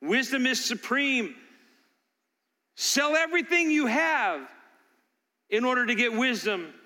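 preacher voicing a father's passionate appeal; passionate fatherly cry. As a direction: cry it out like a father begging his boys. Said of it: "the passion of the father who's crying out".

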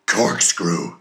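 loud triumphant cry; cried out. A narrator's reading. Ahab supplies the word for Queequeg, crying out. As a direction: snap the word out. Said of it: "cried Ahab".

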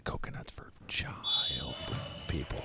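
secret hushed whisper. Acted. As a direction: breathe it like a confession. Free throw candy confession.

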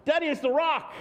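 whisper-warn daddy the rock watches; little son's voice. Retold or imitated. Child voice quoted.

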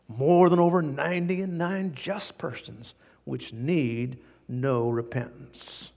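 slow, weighty verse; scripture reading. Acted. Preacher reads Jesus' verse to the men, slowly. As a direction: read it out slowly.

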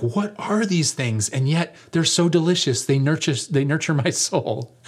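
mock wonder at delicious food; hammed-up amazed diner; awed crowd. Crowd marveling at miracle food.

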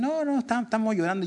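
mock objection, jumping high on "No, no"; imitated protest.

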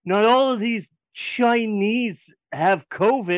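slow, hammed-up movie line; mock character quote. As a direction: mimic the clueless character, drawn out. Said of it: "and it's like".

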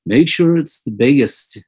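a hint of a famous singer, playful and bossy; impression of a famous singer. Friend jokingly voices the singer ordering the flowers, lightly imitated. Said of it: "you can almost hear the singer".

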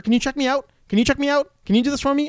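high, pleading mock old lady; mock pushy old lady. Old lady begging the checkout attendant, high mock whine. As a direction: nag like a pushy shopper.

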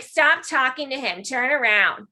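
drawn-out, lightly mocking girlfriend imitation; annoying girlfriend. Girlfriend telling bar players to back off, mild annoying imitation. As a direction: lightly imitate an annoying woman ordering, slowly. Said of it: "exactly how she sounded".

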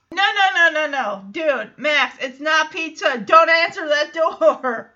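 loud, insistent retold protest; mock urgent warning. Host acting out a warning to Max, mock urgent. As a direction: rattle off the no's, then push the warning.

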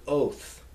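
oath with a long round O; stressed oath ending. Shown as a demonstration. Teacher sounding out the feminine plural ending, long-O oath. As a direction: give oath a full, drawn-out vowel. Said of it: "always need to be stressed".

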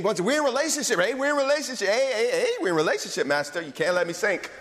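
high urgent plea, easing by the end; insistent pleading. Acted. Peter reminding his master of their bond, insistent pleading. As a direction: press the plea with repeated heys.

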